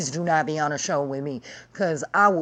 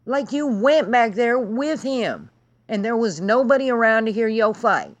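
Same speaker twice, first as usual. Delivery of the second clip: exasperated high rant; 6 semitones higher than usual. Real, not acted. Ranting to viewers about the guest, high-pitched exasperation. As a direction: pitch jumps way up in outraged disbelief.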